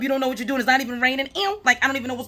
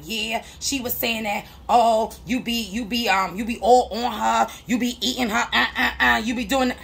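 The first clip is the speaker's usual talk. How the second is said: mimicking the caller; 5 semitones lower than usual. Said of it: "she's like".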